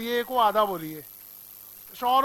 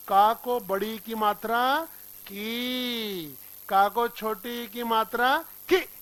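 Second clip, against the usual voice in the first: lightly sing-song, slow school chant; imitating Hindi teacher; much slower than usual. Teacher imitating a childhood Hindi teacher, sing-song. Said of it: "उन्होंने कहा था".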